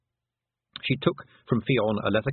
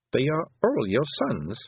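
aghast; 5 semitones higher than usual. A narrator's reading. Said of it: "said Tiffany aghast".

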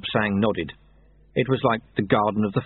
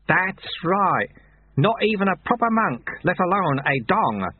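cheerful; 8 semitones higher than usual. A narrator's reading. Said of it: "said the sweeper cheerfully".

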